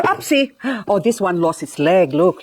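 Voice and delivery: ordinary talk, nothing marked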